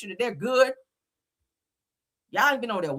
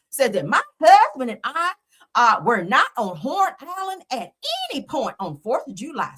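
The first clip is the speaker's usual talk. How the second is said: mock Becky voice; 3 semitones higher than usual. Mocking the judge's statement in a mock Becky voice. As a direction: read it like a smug prissy lady. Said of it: "I gotta say it in my Becky voice".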